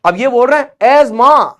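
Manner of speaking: "as मां" with the th dropped; silent th. Shown as a demonstration. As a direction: say "as मां" as "azma", no t or h sound. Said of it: "दो word silent हो गए". ("as मां" को बिना थ के बोलो)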